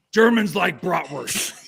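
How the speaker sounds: slow, deliberate speech voice of the coach; mock solemn coach speech; horrible coach impression. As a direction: slowly intone it like a team speech. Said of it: "I'm gonna do a horrible impersonation".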